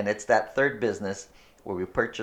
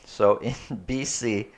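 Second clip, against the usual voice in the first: stifled giggles. Real, not acted. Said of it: "sorry, I'm trying not to laugh".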